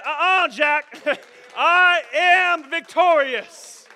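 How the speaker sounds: loud, high, slow triumphant laughing retort; God's mocking reply. God laughing off Satan's boast, loud and high. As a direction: crow it over Satan with a laugh.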